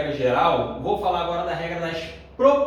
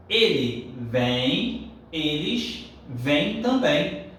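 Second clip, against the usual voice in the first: slow pronunciation demo; 2 semitones lower, much slower than usual. Shown as a demonstration. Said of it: "A pronúncia é a mesma".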